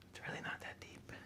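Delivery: soft whisper to himself. Real, not acted. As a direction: breathe it out to yourself. Whispered aside.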